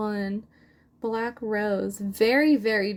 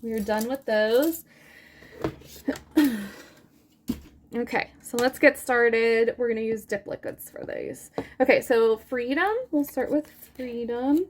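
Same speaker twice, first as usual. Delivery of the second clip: talking through a face mask; muffled, as if behind a mask. Real, not acted. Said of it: "So if I sound muffled".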